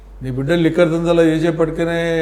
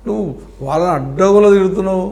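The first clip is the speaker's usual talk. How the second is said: louder, raised accusation; indignant accusation; 3 semitones higher, 4 dB louder than usual. Real, not acted. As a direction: hurl the charge at her. Heated argument over the family name. (కోపంగా గట్టిగా నిందించడం)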